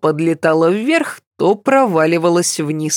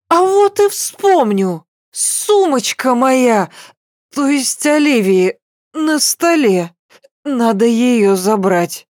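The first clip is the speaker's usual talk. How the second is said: slurring, much higher insistence; tipsy pleading; 6 semitones higher than usual. Acted. Drunk girl boasts she remembers.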